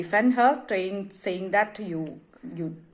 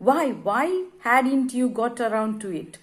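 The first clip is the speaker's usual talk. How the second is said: angry wife; 3 semitones higher than usual. Acted. Wife demanding an answer from her husband, angry. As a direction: press him, voice climbing higher. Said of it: "she gets angry on that particular word".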